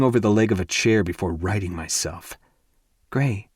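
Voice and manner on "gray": soft plea. Acted. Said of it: "she says in a soft plea".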